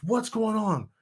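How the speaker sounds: a hint of a doctor rushing in; alarmed doctor. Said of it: "doctor runs in the room and goes".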